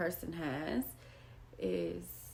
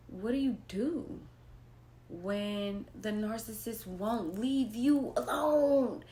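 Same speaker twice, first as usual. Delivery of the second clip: choking up. Real, not acted. Speaker upset about her children.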